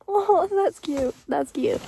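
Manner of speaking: slow, high, melting "aww"; aww, touched. Real, not acted. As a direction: linger on it as if charmed. Touched by a sweet detail.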